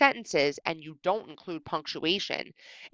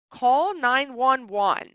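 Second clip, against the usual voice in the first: slow, deliberate reading; 4 semitones higher, 3 dB louder, much slower than usual. Shown as a demonstration. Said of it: "Is that a sentence".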